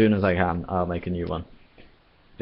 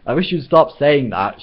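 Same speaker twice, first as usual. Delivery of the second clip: higher, louder, slower snap; shouting; 6 semitones higher, 5 dB louder than usual. Acted. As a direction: shout him down in exasperation. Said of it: "shouted Ford".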